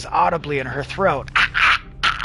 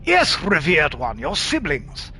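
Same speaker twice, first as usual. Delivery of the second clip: put-on slow, old-fashioned posh London; posh London accent. Mimian answers the revered one, posh London accent. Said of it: "it's the posh, old-fashioned London accent".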